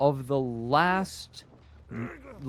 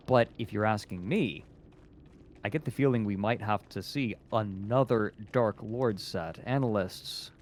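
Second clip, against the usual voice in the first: through gritted teeth; 3 semitones lower than usual. Pretend. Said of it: "talking through your teeth there and sounding all angry".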